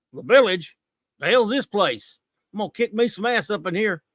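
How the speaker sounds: mild mock action-hero swagger; brash and cocky, lightly done; tough guy parody. Reviewer parodying the hero's lines in mild mock swagger. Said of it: "I don't think he really talked like that".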